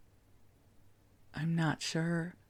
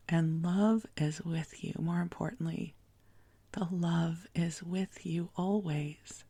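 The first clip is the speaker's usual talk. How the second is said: spa whisper. Acted. Soothing whispered reassurance.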